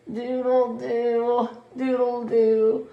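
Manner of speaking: slow reluctant doodle-doo; grumbly. Acted. Sleepy Toodles made to sing at dawn, grudging slow. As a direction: drag it out grudgingly. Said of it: "Toodles grumbled and rolled her eyes".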